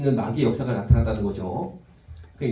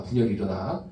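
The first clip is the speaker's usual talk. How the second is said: 분열이 repeated lower with a rise; low echo; 5 semitones lower than usual. Shown as a demonstration. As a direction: drop down on 분열이 일어나. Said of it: "그 분열이 일어나".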